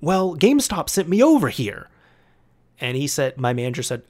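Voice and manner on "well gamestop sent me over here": annoyed. Retold or imitated. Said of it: "And she was saying".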